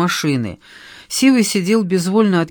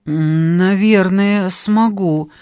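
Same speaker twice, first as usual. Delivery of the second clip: unsure; much slower than usual. Acted. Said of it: "отозвался он неуверенно".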